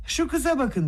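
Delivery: high, sharp cry of mock delight; exclaiming. A narrator's reading. Nastasya Filipovna cries out at the scene, high exclamation. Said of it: "diye haykırdı".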